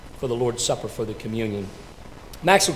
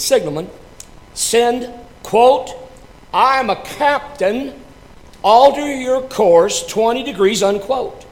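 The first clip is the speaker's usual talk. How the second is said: higher, louder ruffled order; ruffled captain; 9 semitones higher, 6 dB louder than usual. Acted. Ruffled captain ordering the signalman, raised and louder. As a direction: bark the order, put out. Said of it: "the captain was a little bit ruffled by this".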